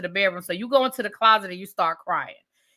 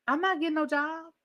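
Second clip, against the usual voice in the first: flat refusal; 4 semitones higher, 8 dB quieter than usual. Retold or imitated. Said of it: "he did not hesitate".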